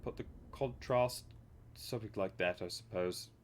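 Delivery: announcer voice gone astray. Acted. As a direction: put on a hammed-up show announcer voice. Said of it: "it was originally the announcer from the X Factor".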